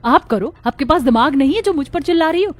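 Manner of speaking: furious shout. Acted. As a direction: shout back at the mother-in-law. Bahu shouting back in quarrel. (चिल्लाकर पलटवार)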